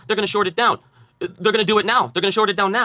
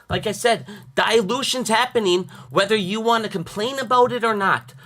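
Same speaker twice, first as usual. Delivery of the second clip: too loud indoors; 2 semitones higher than usual. Real, not acted. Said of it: "I am using my outside voice".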